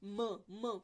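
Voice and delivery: म hummed twice with lips closed; nasal m demo. Shown as a demonstration. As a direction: demonstrate म as a short nasal hum. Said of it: "म बोल के देखें".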